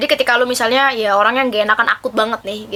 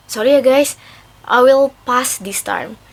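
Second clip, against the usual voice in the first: polite firm refusal; slower than usual. Shown as a demonstration. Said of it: "Bilang aja gini".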